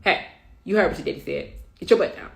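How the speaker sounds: firm, no-nonsense, not yelling; retold stern mom order to a toddler. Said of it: "no yelling, very stern".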